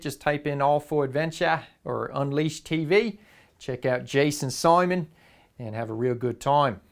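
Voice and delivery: mock Aussie accent held through the whole pitch, saying bush, tucker and reckon; bad Australian accent. Recommending an Australian adventure show to viewers, in a hammy Australian accent. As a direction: keep up a cheesy Australian accent, the Aussie slang hammed up. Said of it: "done with the accent".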